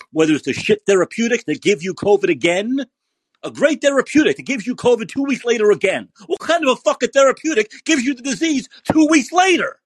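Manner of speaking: rising into a furious high outburst; angry rant. Real, not acted. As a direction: builds to a shouted, incredulous question. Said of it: "And I'm getting angry again".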